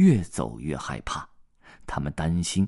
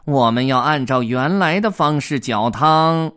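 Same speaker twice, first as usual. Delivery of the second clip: louder bossy cat voice; fierce cat; 7 semitones higher, 8 dB louder than usual. Acted. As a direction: insist like a stern cat. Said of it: "猫凶巴巴地说".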